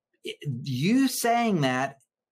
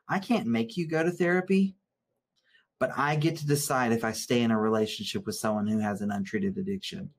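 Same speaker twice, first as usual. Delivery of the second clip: calm clear boundary; 5 semitones lower than usual. Shown as a demonstration. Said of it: "how you say it".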